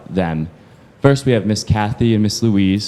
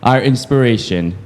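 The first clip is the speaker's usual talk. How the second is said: excited announcement; 4 semitones higher, 5 dB louder than usual. Real, not acted. Announcing the next honoree.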